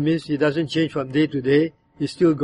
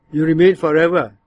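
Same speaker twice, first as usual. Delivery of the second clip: bitter; 4 dB louder than usual. Shown as a demonstration. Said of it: "that verse can be said in that tone".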